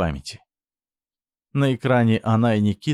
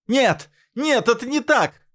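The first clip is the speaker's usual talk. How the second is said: shout; 14 semitones higher, slower than usual. A narrator's reading. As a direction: scream the denial in panic. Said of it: "выкрикнула она".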